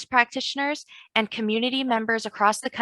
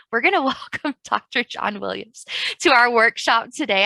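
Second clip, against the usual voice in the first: real laugh breaking into a louder restart; laughing through a stumble; 4 dB louder than usual. Real, not acted. Host restarting a guest's introduction after tripping over words, laughing. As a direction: laugh off the slip as you introduce.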